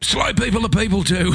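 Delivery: high, giggling comeback; laughing retort. Retold or imitated. Comeback to the old man, laughing. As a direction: say it through a laugh. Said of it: "And I went".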